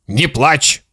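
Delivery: restrained, mildly soothing father; trying to stay calm. Acted. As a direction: soothe the boy with forced patience. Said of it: "стараясь быть спокойным".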